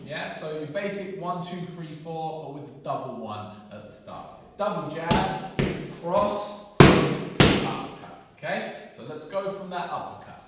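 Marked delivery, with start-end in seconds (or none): 4.6-8.2 loud, punchy combo calls; boxing coach calling combos. Shown as a demonstration. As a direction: bark each punch like a coach. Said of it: "coach calling combo as pad work".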